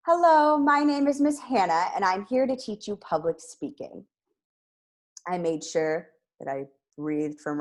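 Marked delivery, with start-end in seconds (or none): 0.1-4.1 louder, higher, bright projected greeting; loud and effective. Shown as a demonstration. Teacher demonstrating a loud, effective greeting. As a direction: project just loud enough. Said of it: "if I want to speak loud and effectively".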